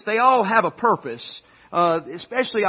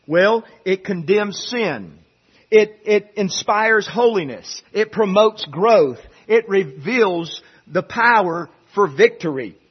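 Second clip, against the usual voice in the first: slow, punched list from the pulpit; measured preacher cadence, leaning on each verb; emphatic preaching; 4 dB louder, slower than usual. Real, not acted. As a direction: drive each point home deliberately.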